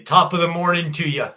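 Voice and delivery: hammed-up Irish greeting; mock Irish accent. Streamer teasing English viewers with a greeting, mock Irish accent. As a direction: put on a jokey Irish lilt. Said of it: "That's Irish".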